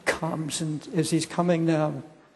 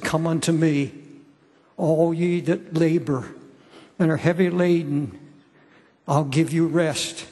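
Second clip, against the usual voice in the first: measured, emphatic reading of Jesus' call; scripture recitation; 3 dB louder than usual. Acted. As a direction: recite it as an earnest invitation, leaning on each phrase.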